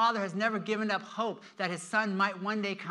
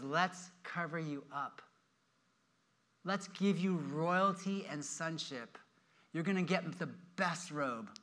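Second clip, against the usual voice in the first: tender; 2 semitones lower, 5 dB quieter than usual. Acted. Father reassures his returned, shamed son.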